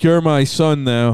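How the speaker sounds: slowly, a mock menacing claim; slow creepy claim. Cohost plays coked-up Brady, slow and mock menacing. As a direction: drag it out like a creep laying claim. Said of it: "He's like".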